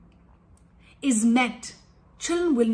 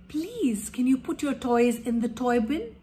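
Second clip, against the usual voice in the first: gentle request. Shown as a demonstration.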